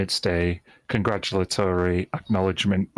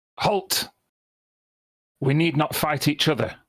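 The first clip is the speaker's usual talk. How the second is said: raised, authoritative, commanding voice; 8 semitones higher than usual. Voicing a captain raising her hand to stop a fight: authoritative command. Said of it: "she raises her hand up with authority and says".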